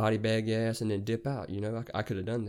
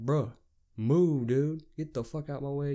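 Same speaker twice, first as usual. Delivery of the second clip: play-acted, pissed-off, angry, drawn-out delivery; 4 semitones higher than usual. Retelling a parking lot standoff, quoting own words: retelling own angry words. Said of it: "I get pissed off".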